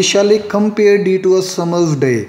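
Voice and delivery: slow, deliberate reading of "Shall I compare day to a summer's day?"; iambic scansion. Shown as a demonstration. Teacher repeating the example line for students, slowly scanned. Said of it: "नीचे मैंने वही example दोबारा दी".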